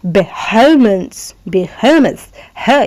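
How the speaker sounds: बेहलमेंस slow, extra push on the middle हा; stressed h. Shown as a demonstration. Teacher stressing the h for students. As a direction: lean on the h in बेहलमेंस. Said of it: "इस हा पे हमने ज़रा stress डाला".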